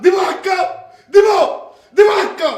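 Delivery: shouted, high challenge; mock threat. Husband daring his wife he'll push her, mock-shouted threat. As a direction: dare her, half-joking.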